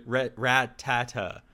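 slow ratata, stretched T; slow demo. Shown as a demonstration. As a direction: ratata drawn out to show the wrong way. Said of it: "You're saying ratata".

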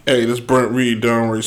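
mock hushed sign-on so the neighbors won't hear; imitating his old hushed radio intro; retold whisper. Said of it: "Why are you whispering?".

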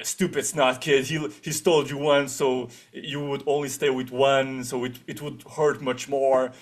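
hammed-up snooty kid voice; over the top line. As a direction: overplay a bratty kid's line. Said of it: "I'm not sure if he delivers it like that".

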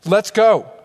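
fired-up call to action; worked up. Acted. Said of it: "he's angry and he's worked up".

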